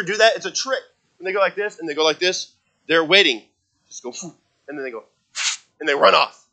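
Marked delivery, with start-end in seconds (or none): 4.1-4.3 short sharp puff of air; quick breathy blow; imitated deer snort. Imitates the deer's noise. 5.3-5.6 abrupt burst of blown air; startled animal puff; imitated deer snort. Imitates the deer's noise.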